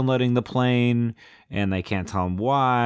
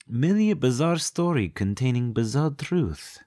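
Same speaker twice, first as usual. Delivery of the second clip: put-on higher, stagey Romanian accent; mock Romanian accent; 4 semitones higher than usual. Romanian arguing for the killer ape myth, mock accent. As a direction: pronounce it grandly in a fake Romanian accent. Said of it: "what I'm doing with that accent".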